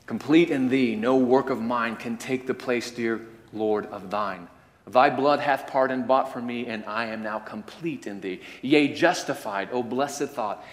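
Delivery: measured, solemn hymn recital; poem recitation. Acted. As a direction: savour each line like a prayer.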